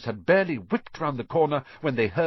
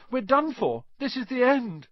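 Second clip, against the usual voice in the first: moaning; 14 semitones higher than usual. A narrator's reading. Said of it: "Ron moaned".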